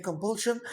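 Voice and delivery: "compulsion" with its last syllable said shun; ending said shun. Shown as a demonstration. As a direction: end "compulsion" on a clear shun. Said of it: "المقطع الأخير ده حضرتك تكتب لي جنبه شان". (نطق "compulsion" بآخر مقطع "شان")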